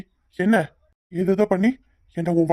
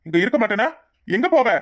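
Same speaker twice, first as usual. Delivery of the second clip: angry; 3 semitones higher than usual. Acted. Husband quarrel, she threatens leaving.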